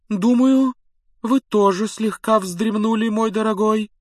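high, breezy and dismissive; high airy seer voice. A narrator's reading. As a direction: wave him off like a dotty prophetess. Trelawney dismissing Harry.

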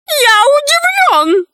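very high, slow lament; sighing. A narrator's reading. Bedbug answers the girl's condition, sighing. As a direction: sigh it out slowly in a high put-on voice. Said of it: "вздохнул Клоп".

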